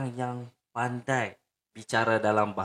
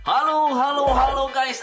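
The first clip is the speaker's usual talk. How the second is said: high, loud cheerful hello; excited greeting; 13 semitones higher, 6 dB louder than usual. Real, not acted. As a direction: greet the viewers with big energy. Vlog greeting to viewers.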